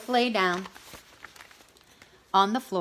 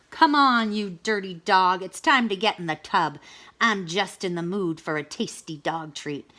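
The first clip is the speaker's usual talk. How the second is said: louder, rough wolf voice; gruff wolf; 3 dB louder than usual. Acted. Wolf hauling Dog to the tub, gruff and louder. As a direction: grab her and haul her to the tub.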